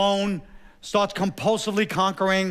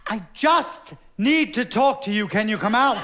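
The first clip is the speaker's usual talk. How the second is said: put-on pleading drunk call; 4 semitones higher, 4 dB louder than usual. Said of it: "yelling across".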